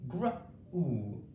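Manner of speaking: "gr" blended, then "u" on its own; blended sounding out. Shown as a demonstration. Teacher shows the gr blend to pupils, segmented. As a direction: say "gr" quickly, pause, then "u". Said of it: "to make the gr sound".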